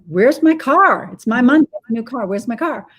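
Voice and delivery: imitating an angry yell. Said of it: "yells at her".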